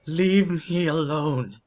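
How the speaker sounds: high, loud, drawn-out plea; acted shriek. Terrified woman to the werewolf, shrieking. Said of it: "The woman shrieks, and she says".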